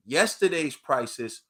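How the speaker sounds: slow, each word laid down like a rule; slow and deliberate. Real, not acted. Telling Crawford's fans his price has dropped, slow and deliberate. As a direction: spell it out slowly for the fighters. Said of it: "remember this".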